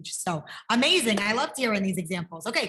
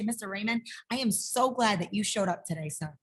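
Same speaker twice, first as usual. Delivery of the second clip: gently sincere greeting; mean every word kindly; sincere welcome; 2 semitones lower than usual. Shown as a demonstration. Teacher showing a sincere greeting to a student. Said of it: "Different, right?".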